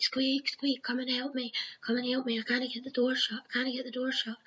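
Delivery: a calm replay of calling out for help; mild retold shout. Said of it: "And I'm shouting on Squeak".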